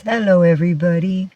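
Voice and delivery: lightly voiced cat saying hi; voicing the cat. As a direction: speak up for your pet, playfully. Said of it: "Oh, he says".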